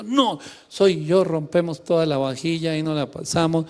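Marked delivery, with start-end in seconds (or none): 0.0-1.2 high, drawn-out mock yell; retold husband's shout. Husband yelling back at his wife in a retold row, mock shout. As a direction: insist loudly, stretching the words. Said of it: "Y yo grito".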